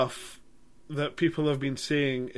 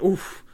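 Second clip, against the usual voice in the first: slightly higher wincing "oof"; retold wincing oof; 4 semitones higher than usual. Reviewer recalling gory moments in the cinema, mild winced oof. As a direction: re-enact a small reaction to violence. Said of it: "I actually went".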